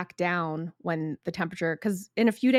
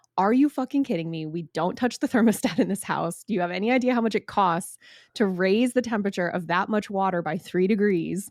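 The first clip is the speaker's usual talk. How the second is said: ordinary talk, nothing marked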